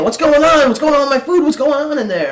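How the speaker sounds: put-on high, loud cranky old man asking; impatient old man. Old guy waiting for his food, cranky and loud. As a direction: demand it like a grumpy old customer.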